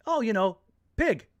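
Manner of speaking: high, imitated southern English accent; thicker southern English accent. Woman tells the vegetarian what candy is, English accent. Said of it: "You get a thicker accent".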